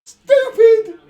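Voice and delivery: sudden furious shout; angry yell. Real, not acted. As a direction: explode at the screen. Angry outburst at screen.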